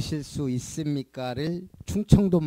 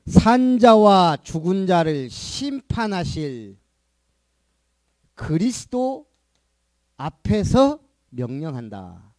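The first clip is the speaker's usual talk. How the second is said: slow, weighty proclamation; preaching; slower than usual. Acted. Pastor reading Paul's charge to the congregation, solemn and slow.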